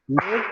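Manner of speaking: "Live" cut off as the first syllable of living, short i; syllable demonstration. Shown as a demonstration. Teacher splitting living for the class, sounding out "Live" separately. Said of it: "two syllables".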